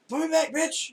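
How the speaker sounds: very high, loud squealing little creature. Pretend. Little mandrake creature shrieking at the player. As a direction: shriek it like a tiny angry mandrake. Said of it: "He's like".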